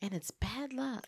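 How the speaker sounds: hushed mock-ominous whisper; spooky whisper. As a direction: breathe it like a dark secret. Echoing line in mock spooky whisper.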